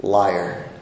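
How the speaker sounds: low, softly voiced accusation; understated, disbelieving retort; people's accusing response. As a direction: drop it low and quiet, as an accuser. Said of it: "we see the people's response here".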